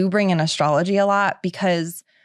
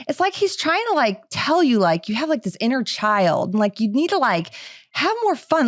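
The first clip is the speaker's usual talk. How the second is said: higher, eager channeling voice; imitating gushing psychic; 5 semitones higher than usual. Medium relaying Steve's message, higher excited voice. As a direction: pass on the spirit's message brightly. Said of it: "She's like".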